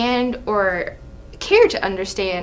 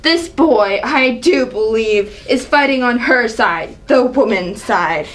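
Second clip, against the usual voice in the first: scornful, indignant royal rebuke; a proud ruler scolding a young upstart; angry king. Acted. King berating his son, angry. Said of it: "Seeing the angry side of her".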